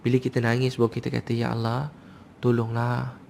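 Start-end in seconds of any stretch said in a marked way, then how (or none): 1.3-3.2 mild imploring prayer; pleading in hardship. Acted. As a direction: plead gently to God in trouble. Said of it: "Tengah susah".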